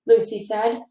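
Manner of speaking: put-on reading a children's book aloud; story narration. A narrator's reading. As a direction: tell it gently to a class of kids. Reads a picture book aloud.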